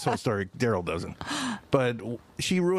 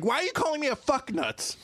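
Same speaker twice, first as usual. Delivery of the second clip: imitating friend; 9 semitones higher than usual. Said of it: "She's like".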